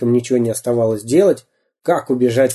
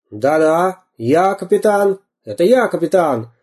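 радостно, выше обычного; похвастайся, что ты капитан; обрадованный пират; 6 semitones higher than usual. Acted. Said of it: "обрадовался пират". (пират радуется, что его узнали: радостное хвастовство)

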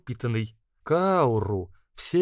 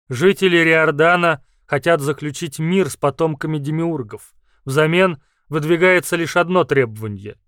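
firm, louder official announcement; formal envoy voice; 6 dB louder than usual. Acted. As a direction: read it like a formal message. Message voiced as a character.

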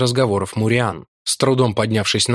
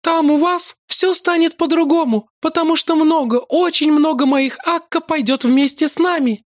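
much higher, happy promise; eager maiden. A narrator's reading. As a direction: promise it gladly. Lakla promises.

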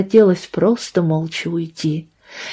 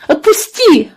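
sobbing; 8 semitones higher, 4 dB louder than usual. A narrator's reading. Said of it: "всхлипнула она".

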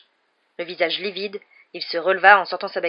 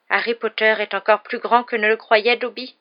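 high, loud, tearful elf voice; emotional little creature, voice raised; sobbing elf; 4 semitones higher, 6 dB louder than usual. A narrator's reading. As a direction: praise him as if overcome by tears. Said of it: "sanglota-t-il".

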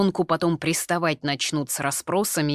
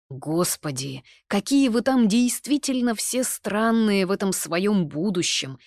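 indignant; 6 semitones higher, 5 dB louder than usual. A narrator's reading. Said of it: "возмутился Артур".

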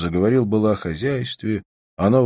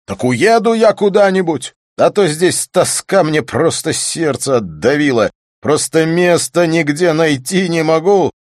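anguished outburst; 10 semitones higher, 8 dB louder than usual. Acted. Despairing after falling into chair.

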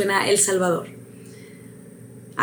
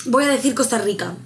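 ordinary talk, nothing marked

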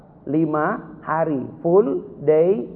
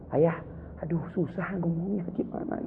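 put-on soft, breathy child's grumble; a hint of a tired kid; child's complaint; 10 dB quieter than usual. Child complaining to father about new speech, lightly voiced and soft. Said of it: "kata anak saya".

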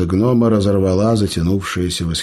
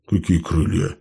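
ordinary delivery, nothing marked

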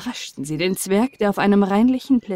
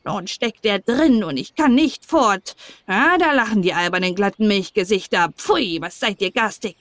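lightly raised, peevish little dwarf voice; a touch of a whiny trapped dwarf; cranky little man stuck by his beard; grumpy dwarf; 3 semitones higher than usual. Acted. Dwarf complains, caught by beard.

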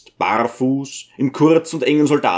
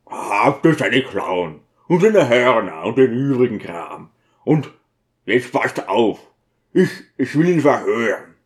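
lightly voiced deacon. Deacon character voice.

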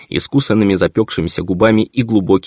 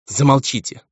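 higher-pitched, pained order to stop; distressed plea; 7 semitones higher than usual. A narrator's reading. Baroness cannot bear her husband's insults, distressed. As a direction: beg him to stop, pitch lifted.

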